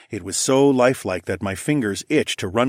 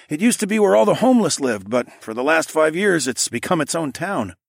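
raised, lively townsman; man voice; 7 semitones higher than usual. A narrator's reading. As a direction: voice the local man a bit higher. Man explains the town.

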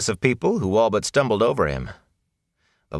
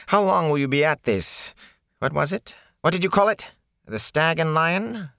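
nervous peddler; 10 semitones higher than usual. Acted.

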